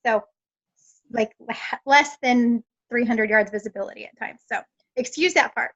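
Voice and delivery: husky from wildfire smoke; smoke-hoarse voice. Real, not acted. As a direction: speak through a smoke-sore throat. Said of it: "Excuse my voice. The smoke here is so bad".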